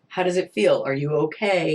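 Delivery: lightly acted, caring check-in; a touch of concern in the question. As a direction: ask as if checking she is okay. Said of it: "Maybe she's actually checking".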